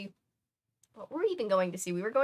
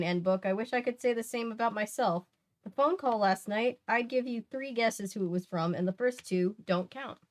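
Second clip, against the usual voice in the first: reading a novel aloud; 2 semitones higher, 3 dB louder than usual. Acted. Streamer reading the book to chat, lively read-aloud. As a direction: read the diary entry with energy.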